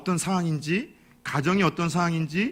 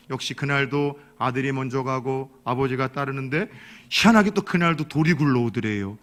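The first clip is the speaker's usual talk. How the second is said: normal talking voice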